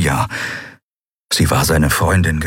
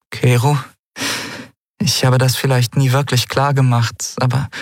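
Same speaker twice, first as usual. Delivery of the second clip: put-on a lightly raised young woman's voice, earnest; Andriel pleading; 7 semitones higher than usual. Andriel to Kai, trying to confess, lightly raised earnest voice. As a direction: open up to him, a little higher than your own voice.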